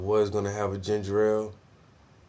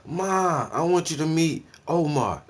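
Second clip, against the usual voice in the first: higher, louder put-on girl voice; daughter introducing boyfriend; 7 semitones higher, 5 dB louder, slower than usual. Daughter brings her first boyfriend home, put-on girlish voice. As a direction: play the girl presenting her boyfriend to mom. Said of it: "When the baby girl bring her first boyfriend home".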